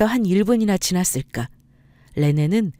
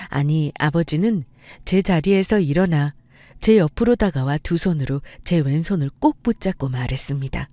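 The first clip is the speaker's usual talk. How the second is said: usual speaking voice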